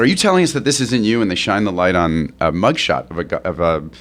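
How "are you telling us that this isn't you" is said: mock-intense cop questioning, pitched higher. Cops grilling a suspect on the porch, intense. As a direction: press the question like a retold tough cop. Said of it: "pretty intense".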